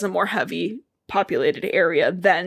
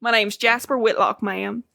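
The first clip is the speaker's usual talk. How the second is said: put-on Southern accent. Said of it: "I think I wanna do this in an accent".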